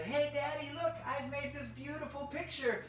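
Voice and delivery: put-on high-pitched eager child voice; high, eager little girl; excited little sister. Little sister shows Dad her picture.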